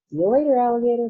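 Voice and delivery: loud, high, cocky farewell yell; gleeful shout. Acted. Boy taunting everyone as he jumps for the switch, gleeful yell. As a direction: fling it back as you leap. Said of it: "he shouted".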